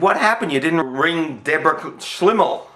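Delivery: lightly voiced nosy old woman, pushy; scolding old lady. Old landlady scolding the bachelor, lightly voiced nag.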